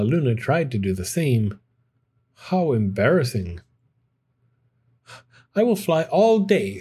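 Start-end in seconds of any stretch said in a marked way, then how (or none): 5.5-6.8 told herself. A narrator's reading. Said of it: "Stella Luna told herself".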